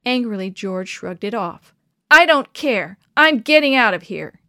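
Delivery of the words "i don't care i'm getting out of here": loud defiant cry; stubborn cry. A narrator's reading. Boy shrugging off the elder's hand, yelling. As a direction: dig in and refuse loudly. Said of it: "he cried stubbornly".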